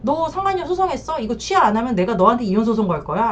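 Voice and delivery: retold threat. Husband threatening wife with a divorce suit, mildly menacing. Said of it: "남편이 그렇게 협박을 하거든요".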